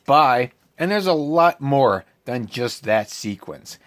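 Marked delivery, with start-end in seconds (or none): 0.1-0.5 louder, clipped mock goodbye; curt bye. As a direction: drop the word and leave. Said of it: "That's how you're gonna end the argument?".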